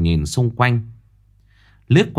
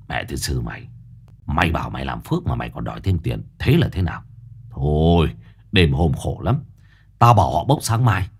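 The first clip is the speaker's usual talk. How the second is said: put-on grumbling old man; 4 semitones lower than usual. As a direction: grumble at the greedy partner. Quý scolding the medium.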